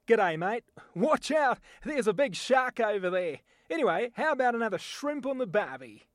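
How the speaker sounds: loud, broad Australian accent; an Aussie warning about a shark. Shown as a demonstration. An Australian at a barbecue, in an Australian accent. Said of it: "my voice talent demonstration".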